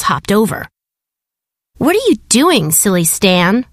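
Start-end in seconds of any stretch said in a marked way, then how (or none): 1.8-3.6 jeering. Acted. Seagulls lightly jeering at Stan on the beach. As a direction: tease him lightly, like a bully bird. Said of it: "they jeered".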